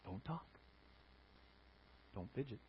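whispered stern hush; hushed commands. Pretend. Preacher mimics a strict churchgoer hushing, whispered. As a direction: hiss the rules under your breath. Mocking rigid church rules.

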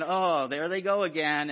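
exasperated onlookers. Retold or imitated. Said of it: "they're probably like".

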